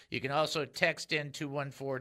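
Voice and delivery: usual speaking voice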